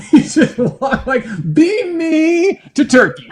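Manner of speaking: high laughing plea; giggling Star Trek request. Real, not acted. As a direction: laugh through a joking wish.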